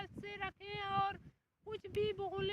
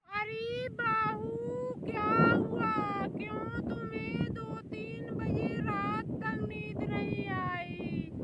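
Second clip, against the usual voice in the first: loud scolding call; 2 semitones higher, 6 dB louder than usual. Acted. Mother-in-law shouting at daughter-in-law, loud scolding. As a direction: call out to the daughter-in-law, then demand answers.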